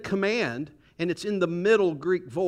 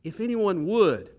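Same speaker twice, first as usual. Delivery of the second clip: WOULD lifted high and loud; stress on WOULD; 4 semitones higher, 5 dB louder than usual. Shown as a demonstration. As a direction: lean hard on the word "would". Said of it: "What's that word?".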